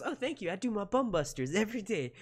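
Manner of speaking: high-pitched comic character voice; movie host impression. Odd host thanking the main character, high comic voice. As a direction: preen in a silly high voice. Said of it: "And he goes".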